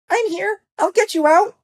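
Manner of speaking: tiny, very high squeaky voice; reassuring mouse. A narrator's reading. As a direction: promise rescue in a mouse squeak. Mouse comes to free the lion.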